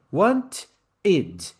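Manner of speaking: two detached beats, "Want" then "id"; train drill. Shown as a demonstration. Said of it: "Pega o trem".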